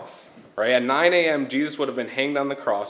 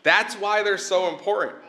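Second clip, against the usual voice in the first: higher-pitched opening, stating the obvious; mock "duh" reaction; 4 semitones higher than usual. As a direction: play a listener finding it self-evident. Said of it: "Now, you could say".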